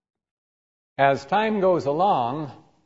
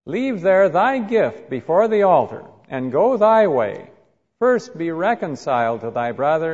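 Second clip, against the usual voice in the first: measured, solemn Bible reading; solemn King James reading, each clause weighed; scripture reading. Acted. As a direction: read the verses like a sermon text. Reads scripture passage aloud.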